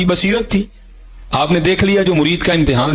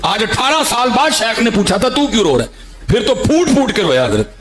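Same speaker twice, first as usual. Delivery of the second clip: tearful rise; 8 semitones higher than usual. Acted. Emotional climax of the disciple's tears.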